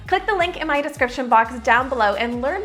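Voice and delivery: upbeat sponsored read. Acted. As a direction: sell it like an ad.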